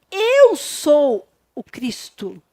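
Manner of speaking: slow and solemn, each word weighed; Jesus to the Samaritan woman, slow and solemn; solemn revelation. Pretend. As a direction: announce it slowly, with grave dignity. Jesus reveals himself to woman.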